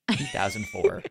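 very high, silly falsetto announcement; squeaky announce. Acted. Host teasingly re-announcing the year, squeaky falsetto. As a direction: chirp the year like a cartoon.

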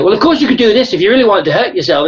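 a parody of needling someone, kept friendly; mock friendly-aggressive. A Scouse mother saying something then the opposite, mock friendly-aggressive. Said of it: "a friendly but aggressive sounding way of communicating".

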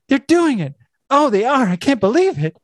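high, thrilled squeal of disbelief; excited intern. Retold or imitated. Intern at the telescope, thrilled at what she sees. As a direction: gasp it out like a thrilled gossip. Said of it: "She's so excited".

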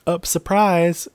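loud, high, slow surprise reveal; spring it on him playfully; mock surprise. Bronn surprising Jaime in the crypts, hammed-up loud. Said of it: "basically is like".

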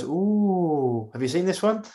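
high, excited gossiping crowd; a crowd leaning in, thrilled; eager gossip. Retold or imitated. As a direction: mimic people hungry for news. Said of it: "everyone goes".

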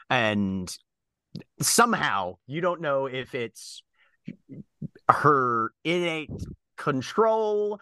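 game master describing with deliberate pauses; measured tabletop storytelling; scene-setting narration. Acted. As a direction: describe the character, pausing to build the picture.

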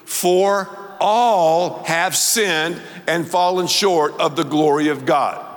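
slow, solemn reading of the verse; scripture reading. Shown as a demonstration. Preacher reading Romans aloud, slow and solemn. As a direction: read it slowly so all follow. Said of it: "Let's read this scripture together".

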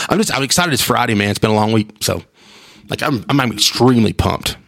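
normal talking voice

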